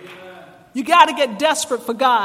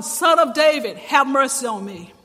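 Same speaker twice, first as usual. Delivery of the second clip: calling out; 3 dB louder than usual. Acted.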